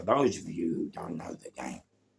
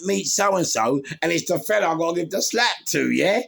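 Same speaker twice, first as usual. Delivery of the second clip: high, loud, eager reveal; excited retelling; 10 semitones higher, 7 dB louder than usual. Retold or imitated. Retelling how his mate loudly announces the man to slap.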